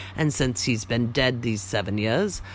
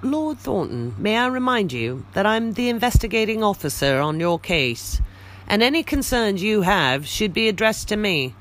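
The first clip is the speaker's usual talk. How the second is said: stern inspector; 6 semitones higher than usual. Acted. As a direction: lay down the law as inspector. Lestrade asserts his authority.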